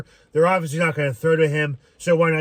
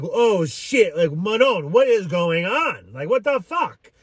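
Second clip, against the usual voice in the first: put-on exasperated Italian accent, swooping up higher on the curse; light Italian-accented outburst of disbelief; 4 semitones higher, slower than usual. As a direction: stretch it out in a mock-Italian voice, slowly. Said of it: "In my Italian voice".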